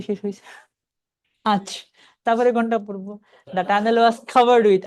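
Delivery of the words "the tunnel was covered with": very slow, each word drawn out; deliberate teacher read; slow reading demo. Shown as a demonstration. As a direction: model the phrase slowly for students. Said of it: "আর with পড়লে থামন যাবো না".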